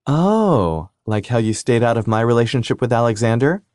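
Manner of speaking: high, sugary sweet jab. Acted. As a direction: sweetly needle him. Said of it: "her voice sweet".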